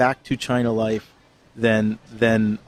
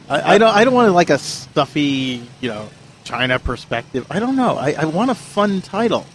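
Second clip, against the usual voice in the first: talking while chewing celery; crunching celery; 3 semitones higher than usual. Real, not acted. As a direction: speak through a mouthful of celery. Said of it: "I'm crunching on celery".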